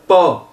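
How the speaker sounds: "pa" as French Paul minus its L; open O without L. Shown as a demonstration. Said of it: "si on enlève le L, ça fait". (« pa » comme Paul sans le L)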